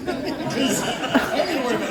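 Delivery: insist, leaning on "gonna"; emphatic repeat. Retold or imitated. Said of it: "That's what I said".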